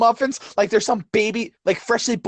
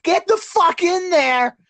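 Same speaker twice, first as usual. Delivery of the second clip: slow, higher mock-furious order; comic rant, slow and raised; mock angry demand; 7 semitones higher, slower than usual. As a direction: bark it out slowly, hammed-up. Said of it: "And I'm like".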